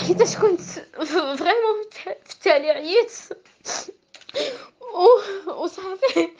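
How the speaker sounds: laughing through tears; tearful, broken-off words; crying. Real, not acted. Recounting frustration while crying.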